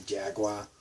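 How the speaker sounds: Jaguar ending in "wah", Boston accent. Shown as a demonstration. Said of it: "we say Jaguar".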